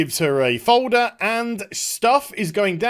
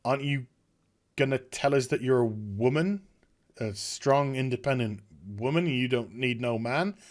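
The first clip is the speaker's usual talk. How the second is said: mock question; 5 semitones lower, 7 dB quieter than usual. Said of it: "it's just like".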